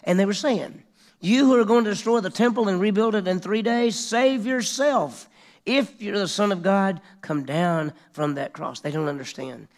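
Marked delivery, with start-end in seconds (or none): 1.2-8.8 higher, louder jeering crowd voice; taunting crowd calling out to Jesus, jeering; mocking taunt. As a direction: sneer it up at the man on the cross.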